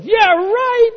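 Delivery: high and loud, mockingly incredulous; sarcastic scoff. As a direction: toss it off like no way. Healed person scoffs at keeping quiet.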